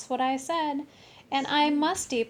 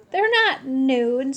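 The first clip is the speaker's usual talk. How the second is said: giggling; 2 semitones higher, 8 dB louder, slower than usual. Acted.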